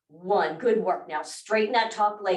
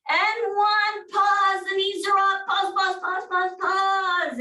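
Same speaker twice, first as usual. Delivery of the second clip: high, sung-out count and pauses; singsong cheering; 10 semitones higher than usual. Real, not acted. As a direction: sing the cue to keep them going. Cheering through the hold.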